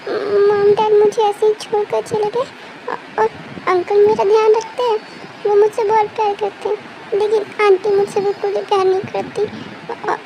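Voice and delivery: halting, stammering through tears; tearful confession. Acted. Abandoned girl confesses to her rescuers, tearful and stammering. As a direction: stumble over the first words as if crying. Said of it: "don't cry".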